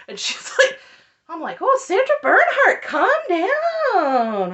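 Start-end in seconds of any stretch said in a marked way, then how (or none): 1.6-4.5 high, loud, hammed-up exasperation; mock the drama queen at high pitch; mock melodrama. Mocking the retold sobbing outburst.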